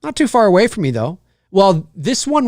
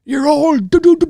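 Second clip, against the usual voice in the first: slow ominous raspy drawl; 10 semitones higher, slower than usual. Retold or imitated. Repeating the doom-prophet line.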